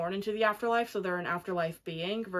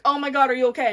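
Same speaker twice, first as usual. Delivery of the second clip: louder, higher rush of concern; worried gush; 5 semitones higher, 9 dB louder, much faster than usual. Retold or imitated. Boyfriend shocked at her injury, loud concerned gush. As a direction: gasp out boyfriend's worry at her. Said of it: "he's like".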